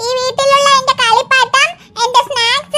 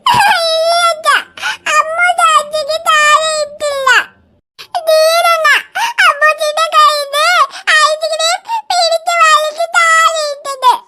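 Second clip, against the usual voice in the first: tearful denial. Acted. Girl tells dad she didn't drop it, crying. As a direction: plead your innocence through sobs.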